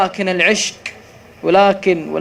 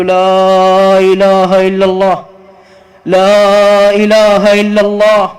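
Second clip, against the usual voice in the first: gentle coaxing; 6 dB louder, much slower than usual. Retold or imitated. Sheikh coaxing dying man.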